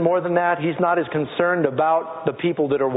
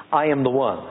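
solemn confession; 2 semitones lower than usual. Shown as a demonstration. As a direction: lead the church in confessing. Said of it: "Say that with me".

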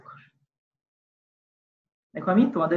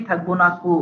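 "থাকবো না কো" as one unit with a pause after; phrase then pause. Shown as a demonstration. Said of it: "পরে থেমে যায়". ("থাকবো না কো" এক প্রয়াসে বলে থামা)

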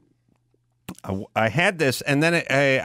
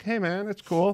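mock surfer dude; 9 semitones higher, 4 dB quieter than usual. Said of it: "you know, like".

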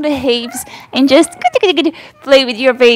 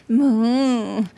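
soft moo; 6 dB quieter than usual. Shown as a demonstration. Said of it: "Maybe make some sound".

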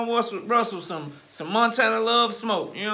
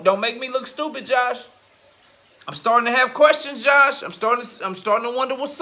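heated callout; 2 semitones higher, 5 dB louder than usual. Real, not acted. Heated rant calling out Josh.

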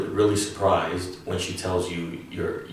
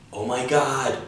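excited gasp; 6 semitones higher, 3 dB louder than usual. Shown as a demonstration. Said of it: "the English equivalent of".

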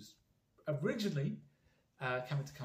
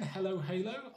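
put-on British accent; 7 semitones higher, 5 dB louder than usual. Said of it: "remember it with the British accent".

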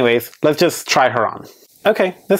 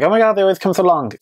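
higher, quicker mimicked whine of complainers; mock complaint; 5 semitones higher, faster than usual. Imitating people who complain about long bangs, mock complaining. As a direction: lightly imitate people griping, pitched up and fast. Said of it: "a lot of people always complain".

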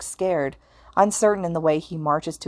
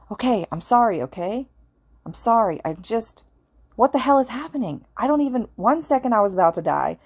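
panicked; 3 semitones higher than usual. Acted. Izuku spiraling into panic.

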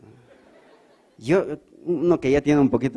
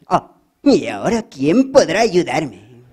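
slow, louder dramatic plea, Spanish dub; dubbed damsel voice; 3 semitones higher, 6 dB louder, slower than usual. Acted. Victim calling for help in Spanish dub, slow louder plea. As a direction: wail it like a TV victim. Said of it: "fea la voz del Chapulín".

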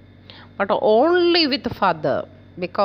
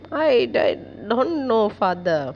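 mild mock stammer, repeating I before don't know; a scared child tripping on the first word; stammering in fear. A girl answers her father, lightly acted frightened stammer. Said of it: "In fear, she swallowed some of the words".

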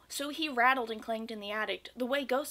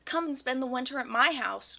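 eager cry; 3 dB louder than usual. Acted. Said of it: "cried Gus".

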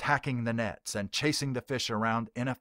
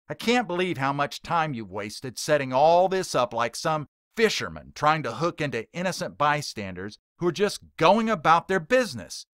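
louder and higher, building scorn; indignant heckler; 4 semitones higher, 4 dB louder than usual. Acted. Heckler scolding the preacher in front of the crowd, disgusted. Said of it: "Billy Mack invokes".

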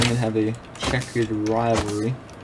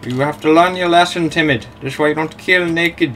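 loud, mocking telling-off of a rival; shouted lesson at the enemy player; scolding shout; 4 semitones higher, 6 dB louder than usual. Real, not acted. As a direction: lecture him loudly like a fed-up parent.

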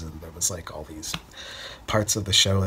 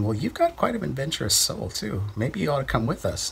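higher, lightly voiced circus helpers inviting him; imitating the helpers; 6 semitones higher than usual. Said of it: "they were saying".

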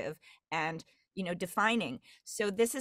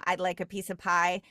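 Great Lakes accent. Shown as a demonstration. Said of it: "Great Lakes I sound with".

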